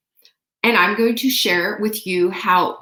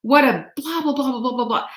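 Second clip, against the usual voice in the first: indignant; 5 semitones higher than usual. Retold or imitated. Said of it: "I was like".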